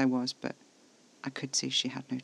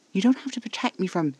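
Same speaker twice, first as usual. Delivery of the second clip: higher, louder objection; indignant protest; 7 semitones higher, 6 dB louder than usual. A narrator's reading. Narrator's character objecting to being protected, indignant. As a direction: push back hard until cut off.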